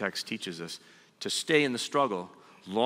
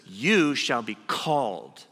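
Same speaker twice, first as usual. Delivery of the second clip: slow, louder, solemn pronouncement; the angel speaking; 5 dB louder, slower than usual. Acted. Preacher voicing the angel naming Jacob, slow and solemn. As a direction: hand down a name from above. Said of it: "And the angel says".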